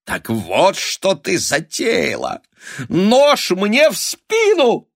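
high, loud, slow horrified cry; a mother crying betrayal at her daughter. A narrator's reading. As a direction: recoil in melodramatic horror. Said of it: "ужаснулась мать".

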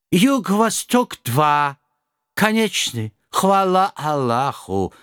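put-on slow, high groan with Kazakh accent; groaning old Kazakh driver. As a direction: moan it out, relieved and worn. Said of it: "простонал пожилой казах".

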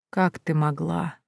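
soft, slow, hollow; mournful ghost whisper. A narrator's reading. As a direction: fade like a cold corpse. (тихий медленный призрачный упрёк)

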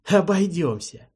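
slow, loud snorted refusal; dismissive snort. Acted. Archi refusing the boss's friendship, loud scoff. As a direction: brush off the offer with a scoff. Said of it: "фыркнул теперь уже Арчи".

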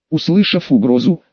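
ordinary delivery, nothing marked

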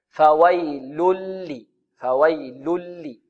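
slow "فويل لي" with each L held clearly; unhurried lams. Shown as a demonstration. Teacher warning against snatching the letters, slow careful syllables. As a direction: draw out "فويل لي" lam by lam. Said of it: "يحذر القارئ من خطفها".

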